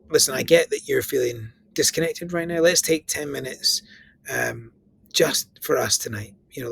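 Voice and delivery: reach out kindly, no pressure; gentle partner role play. Shown as a demonstration. Speaking to an anxious partner about reconnecting, gently. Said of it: "a little role play just now".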